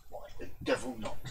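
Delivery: put-on plummy upper-class accent; posh voice. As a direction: say it like a posh gent. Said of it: "That's a very posh voice".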